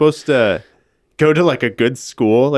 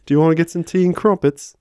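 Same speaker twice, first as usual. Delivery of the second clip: higher-pitched amateur British accent; lightly put-on British accent, raised pitch; British accent attempt; 5 semitones higher than usual. Shown as a demonstration. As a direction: try British again with more ease. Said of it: "I was just trying too hard".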